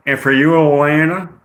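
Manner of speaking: put-on Southern waitress voice; Southern accent. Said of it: "Penelope gets a Southern accent".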